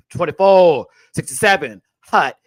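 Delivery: mock football play call; punchy, barked-out count; quarterback snap count.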